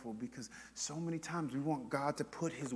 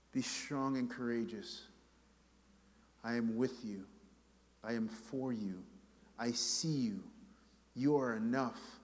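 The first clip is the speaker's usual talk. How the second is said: steady them gently, each sentence set apart; reassuring. Acted. God reassures the scared believer.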